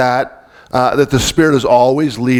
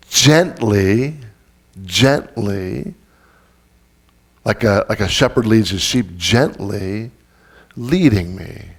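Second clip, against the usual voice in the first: softer and lower, tender; gentle; 4 semitones lower, 3 dB quieter, slower than usual. Shown as a demonstration. Pastor describing the Spirit as a shepherd, soft and tender. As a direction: say it softly, like soothing a flock.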